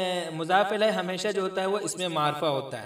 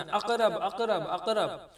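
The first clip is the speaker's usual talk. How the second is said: imitating the witch; 4 semitones higher, much slower than usual. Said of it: "वो जो शैतान थी वो कहती थी".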